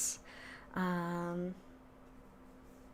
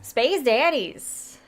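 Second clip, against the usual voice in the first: drawn-out shout; 5 semitones higher, 6 dB louder, much slower than usual. Acted. Shouting out the show's title.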